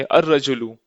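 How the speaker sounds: अर-रजुलु with doubled rolled r; silent L. Shown as a demonstration. Teacher models a sun letter, अर-रजुलु with long r. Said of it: "वही letters इसमें देखेंगे".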